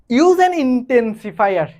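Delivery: very slow, spelled-out reading of the instruction; slow dictation. Shown as a demonstration. Teacher reading the exercise instruction to students, very slow. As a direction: read the task aloud word by word. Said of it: "teacher reads the instruction".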